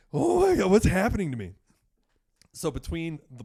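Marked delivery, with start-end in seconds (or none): 0.1-1.5 high, loud shriek of panic; panicked scream. Retold or imitated. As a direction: yell it as if blacking out at the wheel. Blacking out while driving, panic.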